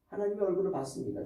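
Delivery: ordinary talk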